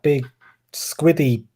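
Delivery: lightly voiced gurgly squid; a hint of a squid creature; squid impression. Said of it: "That's my impression of a squid".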